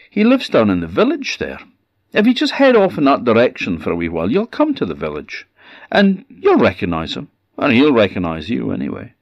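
high, quick fart voice giving directions; breezy and helpful, rattling on; chatty fart creature. Acted. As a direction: fart points the woman to the village, high and chatty.

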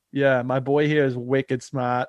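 slow, imitated Boston accent. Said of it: "With the Boston accent and".

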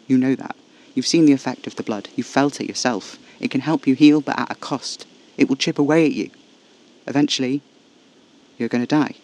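emphatic and urgent, pitch held steady; forceful insistence. A narrator's reading. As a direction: drive the hard truth home. Casper insists on the grim truth.

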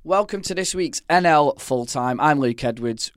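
hoarse, croaky throat; talking through a croaky sore throat. Real, not acted. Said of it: "croaky voice and all".

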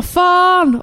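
sharp high shouted swear; shouted curse. Retold or imitated. Disappointed mother mid-labour, high shouted curse. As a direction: spit out the swear in frustration. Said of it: "jag skriker verkligen".

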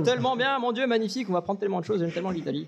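high-pitched, hammed-up fan raving; mock gushing enthusiasm. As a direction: gush in exaggerated delight, high at first then easing. Plays the crowd cheering his own topic.

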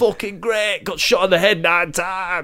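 lightly put-on London geezer, slow boasting; cocky London bloke; London geezer accent. Dead granddad boasting about being shot, light London accent. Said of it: "I'm from fucking Brixton".

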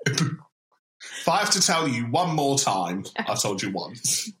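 slow, weary parental telling-off; mock nagging parent. Fed-up parent scolding a forgetful child, slow and weary.

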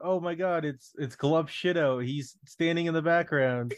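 hammed-up breathless superfan; mock fanboy gush. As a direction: parody an Easter egg hunter spotting a cameo. Mocking an Easter-egg hunter.

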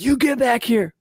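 high-pitched mock scolding call; stern adult order. Adult calling back a fleeing kid, stern order. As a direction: pitch it up like an adult summoning a runaway.

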